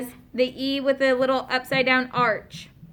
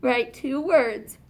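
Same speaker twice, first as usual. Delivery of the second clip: "Write two words" repeated slowly for the class; slow classroom repeat; slower than usual. Shown as a demonstration. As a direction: drag the instruction out so everyone hears it. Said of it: "Write two words that have only one syllable".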